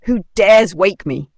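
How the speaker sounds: slow, loud royal rumble; a lightly voiced growling king; deep rumbling lion. A narrator's reading. Woken lion demands who disturbed him, slow loud rumble. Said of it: "his deep voice rumbled".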